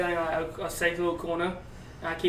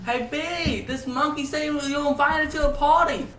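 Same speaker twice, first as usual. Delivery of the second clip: lemur voice; 9 semitones higher than usual. Acted. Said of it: "one of the lemurs is like".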